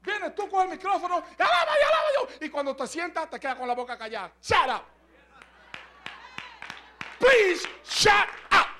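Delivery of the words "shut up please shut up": loud mock shout; telling off. Preacher voices the rude tone of a worshipper. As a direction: snap it at them to hush.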